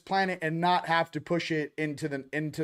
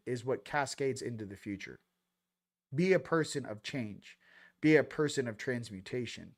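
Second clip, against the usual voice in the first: sincere appeal; 2 semitones lower, 3 dB quieter than usual. Real, not acted. Heartfelt sermon-like appeal.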